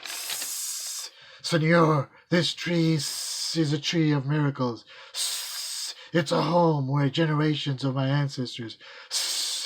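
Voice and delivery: hissing snake. Acted. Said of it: "hissed in his ear".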